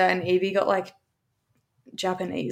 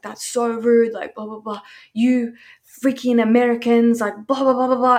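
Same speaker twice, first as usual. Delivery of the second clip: louder, mock scolding rant; retold yelling; 3 semitones higher, 5 dB louder than usual. Imitating the receptionist yelling at her, mock scolding. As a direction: imitate someone telling her off loudly. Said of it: "like, yelling at me".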